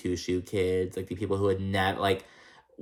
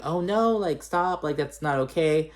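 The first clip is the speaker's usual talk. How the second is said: mock mom voice; 6 semitones higher than usual. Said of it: "And Lisa's like".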